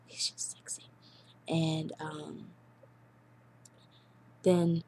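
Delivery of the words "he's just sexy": sighing whisper; dreamy sigh. Real, not acted. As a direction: sigh it out, swooning softly.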